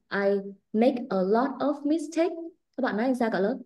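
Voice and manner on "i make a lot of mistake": the wrong way, voice raised; exaggerated wrong example; mock raised-voice reading. Shown as a demonstration. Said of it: "Thay vì nói là".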